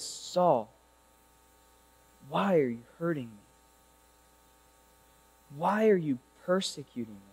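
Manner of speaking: low, soft, far-off voice of Jesus. Acted. Preacher voicing Jesus calling to Saul, low and hushed.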